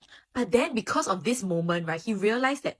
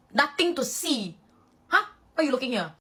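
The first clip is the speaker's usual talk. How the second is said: gruff guard; 6 semitones higher than usual. Retold or imitated. Vice captain shooing teammates off, lightly gruff. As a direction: hold back the onlookers with a growl. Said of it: "he will be like".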